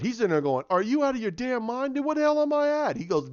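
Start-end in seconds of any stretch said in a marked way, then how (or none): 0.7-3.0 angry. Retold or imitated. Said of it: "he's in there getting pissed".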